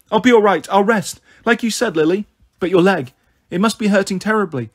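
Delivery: put-on a scared kid pleading to stay put; anxious insistence. Hurt girl insists she's fine.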